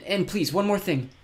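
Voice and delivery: slow, gentle plea; pleading. Acted. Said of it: "she pleaded".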